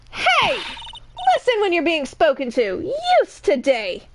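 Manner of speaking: scolding New York guard, high opening call; weird New York accent. Acted. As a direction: snap to attention in put-on New York. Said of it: "giving her a weird New York accent".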